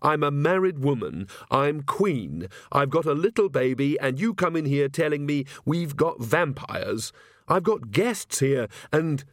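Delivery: mounting protest, pitched a little up; lightly voiced flustered young mother; indignant queen. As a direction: rattle off your objections indignantly.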